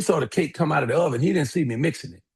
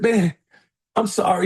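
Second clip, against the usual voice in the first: imitated tearful apology; 5 semitones higher than usual. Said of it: "He's bawling, crying".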